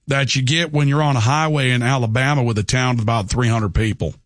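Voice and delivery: lightly put-on rural Alabama country accent; a hint of small-town Alabama twang; backwoods Southern accent. Shown as a demonstration. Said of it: "there's the backwoods country accent".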